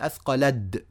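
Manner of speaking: أثقلت said "athqalad", straight from l into d; final t turned to d. Shown as a demonstration. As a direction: end أثقلت on a held d. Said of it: "دخلت من اللام إلى الدال على طول". (نطق "أثقلت" بدال في آخرها)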